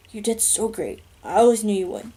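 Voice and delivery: soft, fading voice of a dying man; dying father whisper. A narrator's reading. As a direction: comfort his son with his last breath. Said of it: "he says in a whisper".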